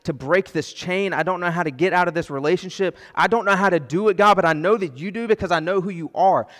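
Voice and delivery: pleading prayer building from firm to loud; a helpless plea growing into a loud cry; desperate cry to God. Retold or imitated. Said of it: "You just hit the end of yourself and you're".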